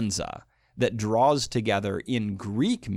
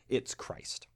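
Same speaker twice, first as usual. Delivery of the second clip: whispered, "It's Christ" breathed out with no voice; hushed reveal; 9 dB quieter than usual. Acted. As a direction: let the answer drop to a secret whisper. Whispered answer to riddles.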